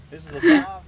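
high, loud disbelieving question; shocked it's a par five; surprised. Real, not acted.

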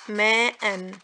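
"ماء" said with an added final N; tanween pronunciation. Shown as a demonstration. Teacher demonstrating the spoken noon, "ماء" with tanween. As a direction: end "ماء" on a clear -an. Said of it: "ده النطق".

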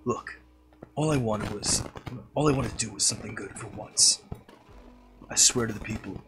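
lightly voiced Snake; a hint of the stealth soldier. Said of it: "snake voice".

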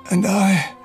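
weak, tender goodbye with coughs; old uncle saying farewell to Leo as he dies; dying farewell. Acted. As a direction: say goodbye as life fades.

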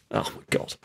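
breathless, disbelieving whisper; stunned whisper. Real, not acted. Manager watching the shot, whispering in disbelief. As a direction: barely voice it in shock.

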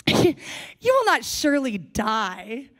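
slow, mocking "will not surely die"; mocking serpent dismissing God's warning; sarcastic. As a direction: scoff at the warning, slowly. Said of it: "Do you hear the sarcasm?".

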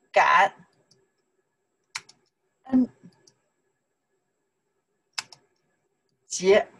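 感, 恩, 节 each alone with long pauses; syllable by syllable. Shown as a demonstration. Teacher teaching Thanksgiving in Chinese, one syllable at a time. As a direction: isolate each syllable for learners.

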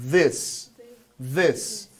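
"This" with a buzzing voiced TH; vibrating TH. Shown as a demonstration. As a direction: buzz the tongue tip into "This". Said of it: "vibra um pouquinho".

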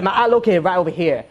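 imitated Asian street artist accent. Caricaturist showing where his eye is, Asian accent. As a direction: explain it in a mock Asian accent. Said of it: "one of those Asian people".

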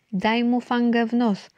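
schoolboy egging on a classmate, mild shout; boy's shout. A narrator's reading. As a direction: egg the fighter on. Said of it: "krzyknął Eusebiusz".

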